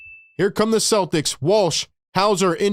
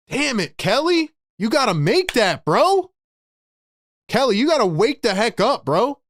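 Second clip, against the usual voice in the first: frustrated; 5 semitones higher than usual. Real, not acted. Missed open three.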